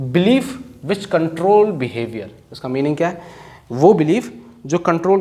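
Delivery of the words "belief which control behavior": slow dictation. Shown as a demonstration. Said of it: "teacher dictating a meaning".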